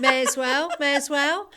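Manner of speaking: contracted Midlands "May as well", like "mairs well"; run together as one. Shown as a demonstration. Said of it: "You were saying it as one".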